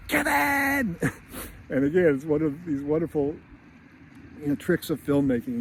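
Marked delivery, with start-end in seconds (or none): 0.1-1.0 high shocked cry of a name; mom's realizing shout. Retold or imitated. Mom on the plane realizing, high shocked shout. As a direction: cry out like a mother who just remembered. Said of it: "And then".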